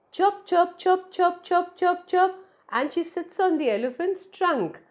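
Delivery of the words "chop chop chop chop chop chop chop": high, bright bird chirps; chirping bird. Acted. Little bird chirping to the big elephant, high calls.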